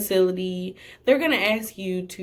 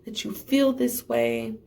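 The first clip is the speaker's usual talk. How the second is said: polite apology; 2 semitones higher than usual. Retold or imitated. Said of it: "I said".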